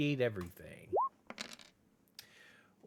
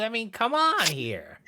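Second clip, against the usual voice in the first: high, whining fake cry; hammed-up sob of frustration; mock whine; 8 semitones higher than usual. Rat whines.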